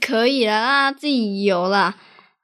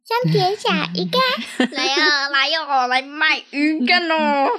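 hard sell ad. Pretend. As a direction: call out like a market seller. Pretend fish vendor hawking.

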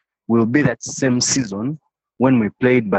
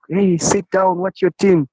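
mock shout of friends; 8 semitones higher than usual. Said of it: "They're like".

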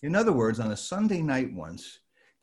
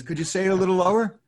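imitating John; 7 semitones higher, 7 dB louder, faster than usual. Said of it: "he says".

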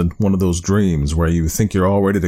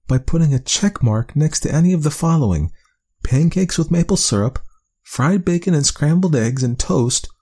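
reading a note aloud; 9 semitones higher than usual. Acted. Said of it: "she read aloud".

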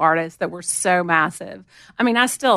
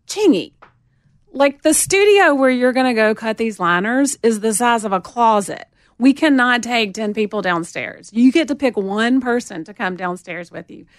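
firm Southern telling-off, a bit raised; strong Southern woman; 3 semitones higher, 4 dB louder than usual. Retold or imitated. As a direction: lay down the law in a Southern accent. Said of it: "really Southern, strong Southern woman".

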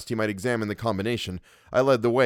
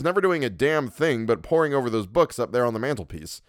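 higher, faster, insistent reproach; scolding friend Louis; 3 semitones higher than usual. Acted. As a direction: nag a hermit friend to get out. Louis lecturing his cousin.

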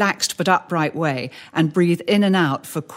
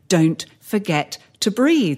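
calm reminder; slower than usual. Shown as a demonstration. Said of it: "how we have to say to them".

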